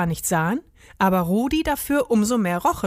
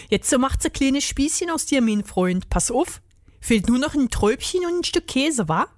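lightly voiced Berlin-dialect character, slightly higher; jovial Berlin rat; 4 semitones higher than usual. Rat joking with the hedgehog, chummy Berlin dialect.

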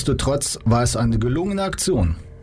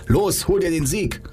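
eager cheer; 7 semitones higher than usual. Acted. Coach urging friend.

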